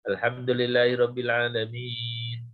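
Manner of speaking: level, droning recitation on one low note; monotone. Shown as a demonstration. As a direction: drone it like rote Quran recitation, no rise or fall. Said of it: "Nggak boleh datar".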